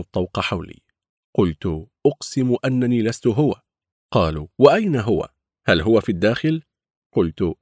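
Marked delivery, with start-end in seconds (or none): 2.1-3.5 pleading. Acted. Pleading denial to gang. 4.6-6.6 demanding. Acted. Gang interrogating.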